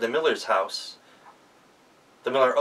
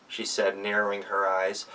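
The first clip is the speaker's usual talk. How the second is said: usual speaking voice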